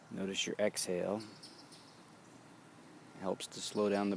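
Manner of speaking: calm, even meditation guidance; walk them gently through each breath; guided meditation. Acted. Teacher guiding students through their breathing, in a calm meditation voice.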